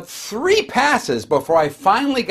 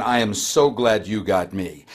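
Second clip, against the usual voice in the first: lower, slowed glad greeting; 7 semitones lower than usual. Retold or imitated. Leslie greeting the sick caller, gladly. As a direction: welcome the caller kindly. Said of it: "Leslie says".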